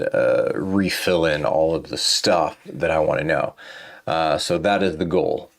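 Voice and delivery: talking through a yawn; tired, mid-yawn speech. Real, not acted. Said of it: "I could tell I'm tired ... I am yawning".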